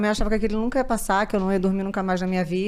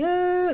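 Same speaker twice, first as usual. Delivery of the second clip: mock toddler wail; 11 semitones higher than usual. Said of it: "Agora ele se joga e faz assim".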